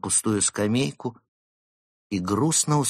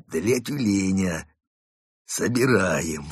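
slow, reluctant forced words; grudgingly squeezed out; slower than usual. A narrator's reading. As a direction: force it out with a wince. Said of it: "выдавил из себя одноглазый и поморщился".

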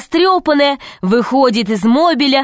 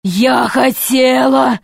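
snake voice; 3 semitones higher, slower than usual. Acted. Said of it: "сказала змея".

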